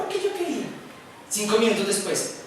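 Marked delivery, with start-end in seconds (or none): 0.0-0.7 niño lloriqueando. Acted. Niño llorando responde.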